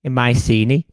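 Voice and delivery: put-on light Scouse accent as a weary old king; lightly voiced Scouse Agamemnon. Agamemnon warns schoolkids in a light Scouse accent. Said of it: "I've made him Scouse".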